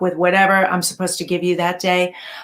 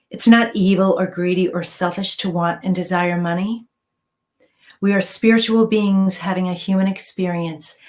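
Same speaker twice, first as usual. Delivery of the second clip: mantra meditation. Acted. Reads money mantra meditation.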